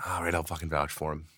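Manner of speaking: grumbling mutter. Retold or imitated. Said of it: "I'm like".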